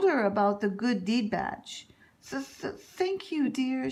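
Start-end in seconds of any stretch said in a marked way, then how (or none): 2.3-3.9 nervous stutter on thank you; stammering. Acted. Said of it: "she stammered".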